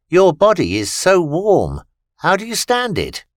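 high, wondering alien voice; amazed alien. A narrator's reading. Alien Vita amazed at Christopher's warm body, high wondering. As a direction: marvel at his strange warmth.

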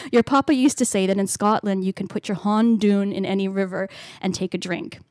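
put-on a lightly done, self-conscious Scottish accent quoting her father; half-laughing attempt at her dad's Scottish brogue, with hondoon for hand down; bad Scottish accent. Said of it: "I'm gonna do a bad Scottish accent here".

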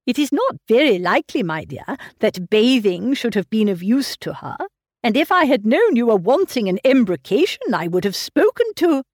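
lightly voiced fussy old father, fretting over his daughter; a hint of a doting, anxious old man pressing gruel. Mr Woodhouse doubting sea bathing.

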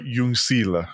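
"Jungsile" sounded out with an Italian-like ending; a hint of Italian on Jungsile. Shown as a demonstration. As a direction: say "Jungsile" as an Italian might, lightly. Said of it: "You're saying it like an Italian".

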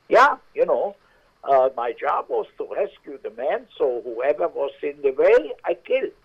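put-on matter-of-fact German accent, high. Maitre d' justifying killing GIs, German accent. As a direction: shrug it off as just his job. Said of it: "with an accent".

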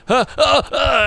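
high, flustered stammer; stunned stammer. Retold or imitated. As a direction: stammer like you've been caught out. Shocked at the call.

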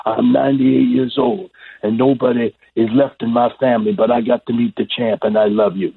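imitating an elderly fan's halting tribute; old man. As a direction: pour out devotion to your hero as a very old man. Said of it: "And the old man goes".

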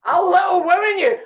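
mock threat through laughter; giggling, loud, playful threat; laughing.

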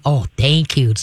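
calm, unexcited thank you. Shown as a demonstration. Owner acknowledges good behavior, very calm. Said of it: "it's a very calm".

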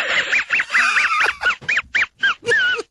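a high, helpless burst of laughter; high shrieking laugh. Real, not acted. Host cracking up at the clip, high shrieking laugh. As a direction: cackle high and long at the clip.

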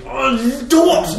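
high, loud exploding curse; mock furious curse. Friend imitating the angry man, yelling the curse. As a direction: spit it out like the angry man meaning it. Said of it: "så mener han virkelig".

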